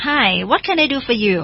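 slow, clear English line; teacher voice, slow and careful; slow model reading. Shown as a demonstration. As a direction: read it slowly like a teacher. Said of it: "เขาก็ถามก่อน".

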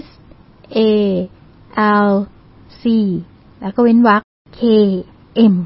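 S, A, L, C, K, M, each letter on its own with long pauses; dictated spelling. Shown as a demonstration. Host dictating to listeners with pens ready, spelled letter by letter. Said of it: "ปากกาพร้อมนะคะ".

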